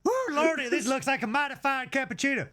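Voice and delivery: Southern American drawl. Pretend. Praising the cappuccino to the barista in a hammed-up Southern accent. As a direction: ham it up like a folksy Southern tourist. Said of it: "kept up the accent to the maximum".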